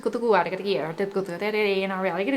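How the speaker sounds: fast, babbled channeling syllables; light language. Acted. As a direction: chant rapid sacred-sounding nonsense. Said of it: "bring forth some light language".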